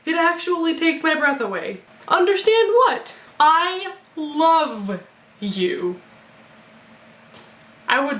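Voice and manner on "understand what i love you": dramatic reading. Acted. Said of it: "I'm just gonna read to you".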